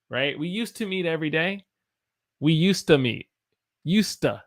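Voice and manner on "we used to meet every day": fast sample phrase. Shown as a demonstration.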